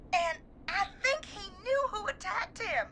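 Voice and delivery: fighting back sobs; tearful. Real, not acted. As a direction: voice catching, close to tears. Friend just died, telling story.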